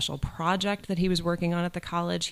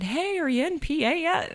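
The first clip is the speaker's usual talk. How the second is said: mentor on the phone; 13 semitones higher than usual. Retold or imitated. Mentor's phone call voiced.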